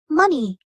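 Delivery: "money" with MON strong, ey weak; first-syllable stress. Shown as a demonstration. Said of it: "its stress is on the first syllable".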